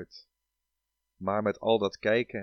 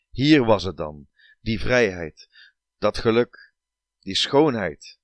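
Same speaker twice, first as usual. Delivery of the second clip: rapturous; 6 dB louder than usual. Acted. Rapture at the other side.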